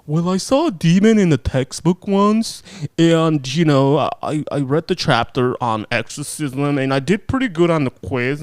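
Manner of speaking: lightly voiced, slow, smug novice priest; mocking young priest. A hint of the young priest boasting to the nurse. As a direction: play a green rookie bragging about his grades. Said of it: "Father Maddox is way too young".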